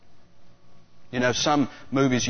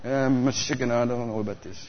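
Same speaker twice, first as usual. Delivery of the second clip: worried Jewish guy. Retold or imitated. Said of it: "That's like a Jewish guy".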